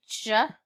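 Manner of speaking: "J-oy" as short J, pause, OY; sounded out. Shown as a demonstration. Teacher sounding out spelling for pupils, j, then oy. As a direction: separate the sounds in "J-oy". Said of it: "Number four is joy".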